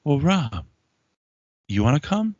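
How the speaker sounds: imitating the wife's pointed dare; mock accusing wife. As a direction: throw the question like an attack. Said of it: "becomes an attack on me".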